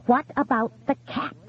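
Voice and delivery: high, urgent question; insist, voice climbing; anxious demand. A narrator's reading. Widow presses the silent caller, high and anxious. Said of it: "she demanded".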